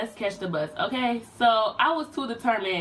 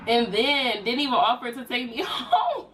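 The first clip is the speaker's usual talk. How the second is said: laughing; 4 semitones higher than usual. Real, not acted. Laughs at the memory.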